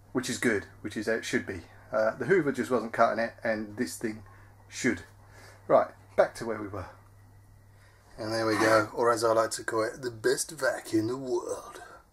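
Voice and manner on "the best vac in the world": deliberately bad, slow put-on announcer voice. Showing off a new vacuum tool, the speaker names it in a really bad impression. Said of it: "With a really bad impression".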